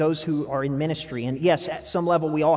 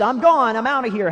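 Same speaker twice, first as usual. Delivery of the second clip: loud hammed-up exit line; angry mock exit, louder; mock storming off; 5 semitones higher, 6 dB louder than usual. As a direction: play the one walking out loudly. Acting someone storming out.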